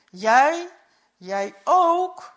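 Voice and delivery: a jolt of shock at the news. A narrator's reading. Uncle hears the boy was on the boat, shocked.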